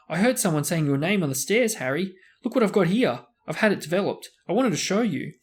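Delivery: high, loud, eager rush of words; eager boy. Acted. Young fan excitedly catching Harry, eager high voice. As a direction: gush like a starstruck kid.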